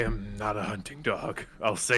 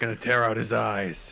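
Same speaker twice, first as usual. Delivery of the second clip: gruff put-on character voice. Voicing a character answering what the group will do: gruff character voice. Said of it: "I was hoping somebody would do this voice".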